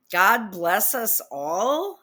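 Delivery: slow disbelieving question; incredulous. Real, not acted. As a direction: repeat it slowly, can't believe it. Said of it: "Who wrote this?".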